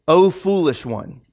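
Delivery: slow, prim biblical scolding; mild mock scolding at a restaurant; mock formal rebuke. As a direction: scold a waiter like a Bible character. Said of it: "do you go".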